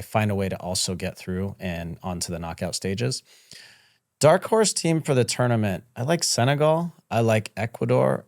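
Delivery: lively sponsor read. Acted. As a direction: pitch it like a radio spot. Betting ad read.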